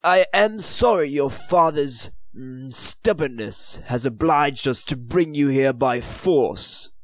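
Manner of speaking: a hint of a haughty English lord; lightly voiced disdainful official.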